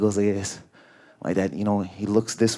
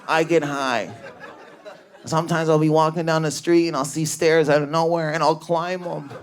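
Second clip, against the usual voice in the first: uncle's odd voice; 3 semitones higher than usual. Retold or imitated. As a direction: lightly voice the dazed uncle. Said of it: "I don't know if he talks like this".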